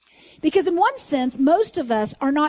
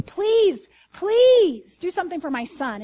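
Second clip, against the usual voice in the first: louder, higher desperate plea for his son; begging father; 5 semitones higher, 4 dB louder, slower than usual. Retold or imitated. Father begs Jesus to help his son, loud desperate pleading. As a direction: cry out please, please. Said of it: "begs him".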